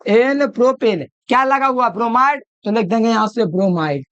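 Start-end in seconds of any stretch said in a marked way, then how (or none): 0.1-1.1 एन प्रोपेल said slowly and clearly; teacher slowly announces एन प्रोपेल; slow dictation. Shown as a demonstration. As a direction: spell out एन प्रोपेल slowly for the class. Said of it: "तो इसको बोलेंगे एन".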